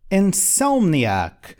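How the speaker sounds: drawn out slowly, each syllable clear; slow clear model word. Shown as a demonstration. Teacher showing students the English word, slow and clear. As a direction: spell it out with your voice for learners. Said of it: "como falamos em inglês".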